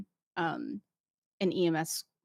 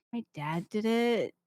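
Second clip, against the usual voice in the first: unenthusiastic; 4 semitones higher than usual. Retold or imitated. Mimics unenthusiastic people who defaulted.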